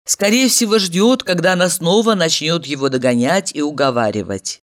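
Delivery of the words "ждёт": plain reading voice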